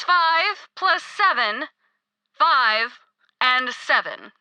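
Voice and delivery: five plus seven drawn out slowly; patient slow-motion repeat of the sum. Acted.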